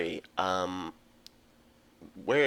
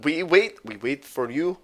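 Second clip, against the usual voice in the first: put-on Russian accent; 3 semitones higher than usual. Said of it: "best Russian voice".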